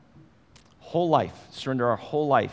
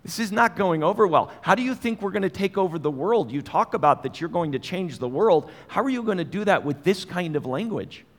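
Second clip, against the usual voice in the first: mildly exasperated telling-off; parental rebuke; 3 semitones higher than usual. Acted. Peter questioning Jesus about his talk, mild parental rebuke. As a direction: lecture like a let-down parent, only lightly acted. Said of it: "This is very much a parent-child word".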